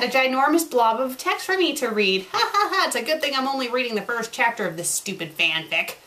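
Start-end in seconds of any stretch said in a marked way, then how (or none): 2.3-2.8 high sarcastic ha ha ha; mocking laugh. Real, not acted. Reviewer laughs at the giant blob of text, mocking.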